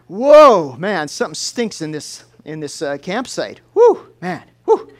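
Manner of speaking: shocked by the stink. Retold or imitated. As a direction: recoil from a stench. Camper smells it again.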